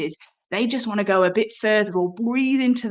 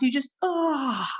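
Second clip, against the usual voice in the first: demo yawn sound; 4 semitones higher, 4 dB quieter, slower than usual. Shown as a demonstration. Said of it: "as you open your mouth".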